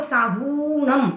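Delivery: "साहूणम" with a drawn-out हू; "साहूणम" said as saa-huuu-nam; long hu. Shown as a demonstration. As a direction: stretch the oo in "साहूणम". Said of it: "हु की मात्रा दीर्घ होने से".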